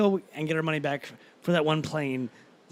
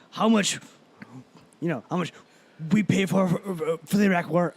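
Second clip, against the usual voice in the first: lightly attempted, halting politician impression; half-hearted take on a grumbling senator; terrible Bernie Sanders. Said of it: "I'm doing a terrible Bernie impersonation".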